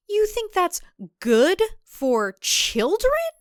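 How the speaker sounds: a mild hint of held-back fury; Audrey confronting Deborah, mildly seething; controlled rage. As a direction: keep the anger in check, biting. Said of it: "low and controlled, but trembling with rage".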